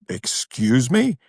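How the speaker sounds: taken-aback, drawn-out query; retold affront. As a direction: draw it out in mock offense.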